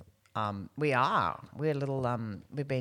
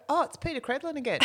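mock weary fan; 12 semitones higher, faster than usual.

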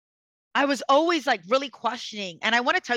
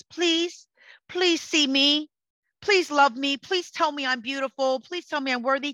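pleading beggar; 3 semitones higher than usual. Retold or imitated. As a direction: imitate someone begging for approval. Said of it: "you become a beggar".

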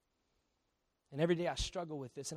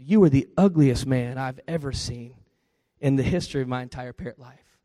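insulting parrot; 4 semitones lower, 13 dB louder than usual. Acted.

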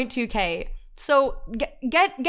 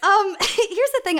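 slow, higher start broken by a laugh; real laughter breaking in; 10 semitones higher, 4 dB louder, slower than usual. Real, not acted. Podcaster admitting the premise sounds whack, laughing. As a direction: try to explain through the giggles. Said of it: "I keep laughing because".

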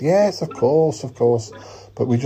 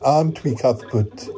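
pointed prompting. Acted. Host nudging Cuthbert to back up the welcome, pointed prompting. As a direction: prompt them pointedly to agree. Repeated after Cuthbert balks.

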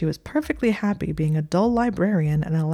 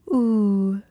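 cooing; 4 semitones higher, 4 dB louder than usual. Acted. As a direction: coo over him like a pet. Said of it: "cooed Circe".

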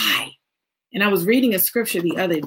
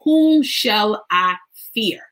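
scripture reading; slower than usual. Acted.

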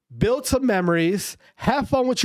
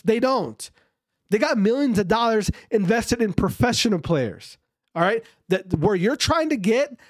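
raised, emphatic ranting at amateur players; heated rant; 3 semitones higher than usual. Real, not acted. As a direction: lecture them hard, fired up. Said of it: "I'm sorry for yelling".

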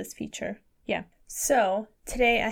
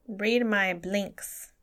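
very slow exaggerated; much slower than usual. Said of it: "joking mime".

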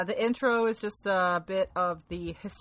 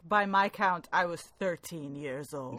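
mock dramatic; slower than usual. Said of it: "the very dramatic".

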